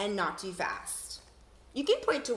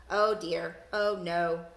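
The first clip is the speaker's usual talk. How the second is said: a hint of a robot, louder; lightly voiced robot fretting; 3 semitones lower, 4 dB louder, slower than usual. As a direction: say it like a worried machine. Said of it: "I gotta say that in my robot voice".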